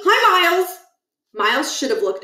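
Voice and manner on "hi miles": much higher, louder sugary hello; sickly sweet school helper greeting; Niles sweet greeting. Acted. Niles greeting Holly in a high sugary voice.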